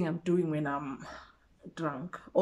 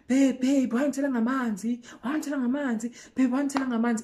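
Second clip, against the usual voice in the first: high, fast, desperate pleading; chasing her, begging; pleading boyfriend; 4 semitones higher, faster than usual. Retold or imitated. Imitating guy pleading with girlfriend.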